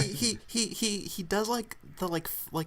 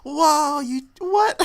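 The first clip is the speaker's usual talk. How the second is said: high-pitched mock astonishment, easing off at the end; stunned disbelief; 12 semitones higher, 10 dB louder, much slower than usual. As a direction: imitate a gobsmacked bystander, high and loud. Acted quote of stunned bystander.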